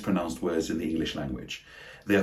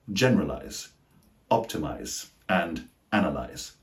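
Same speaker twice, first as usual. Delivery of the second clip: GENERALIZE, OPTIMIZE, ANALYZE each stressed at the start; first-syllable stress; 3 semitones lower, 3 dB quieter than usual. Shown as a demonstration. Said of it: "stress on the first syllable".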